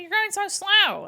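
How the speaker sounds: high, loud impatient scolding; impatient mom. Retold or imitated.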